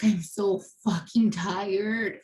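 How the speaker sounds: slow, drawn-out exhausted plea, no scream; retold anguished cry. Wife retelling her tormented husband's words, mild anguished cry. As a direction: imitate his torment, stretching the words wearily. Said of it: "he's screaming and he's looking at me".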